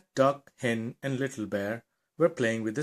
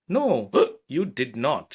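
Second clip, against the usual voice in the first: hiccuping; 4 dB louder, slower than usual. Acted. Little Bear still hiccuping.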